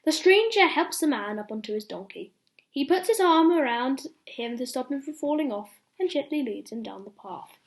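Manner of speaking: lively read-aloud for little ones; bedtime story reading. Acted. Ben reading a bedtime story to children, lively storytelling. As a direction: tell it like a picture book at bedtime.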